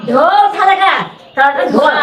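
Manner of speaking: sharp order. Real, not acted. Ordering plate washed.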